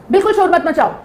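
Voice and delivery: stern command. Shown as a demonstration. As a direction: snap it as a strict order to the kids. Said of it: "tone का फर्क है".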